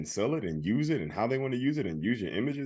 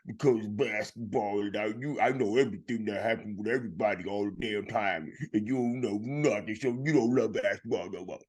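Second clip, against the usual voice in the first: imitating friend's rant. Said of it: "It's like".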